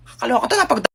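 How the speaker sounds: mock infant sob; crying baby.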